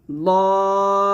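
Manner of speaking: লদ said thick and full; heavy dad. Shown as a demonstration. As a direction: give লদ a heavy, thick sound. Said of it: "এভাবে". (লদ মোটা করে)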